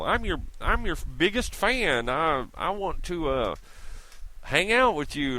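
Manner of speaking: needy gushing fan, mocked; mocking fan voice.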